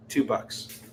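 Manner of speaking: mock angry whisper; whisper rage selling. Seller whispers the price in mock rage, a fake-furious whisper. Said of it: "Whisper Rage selling".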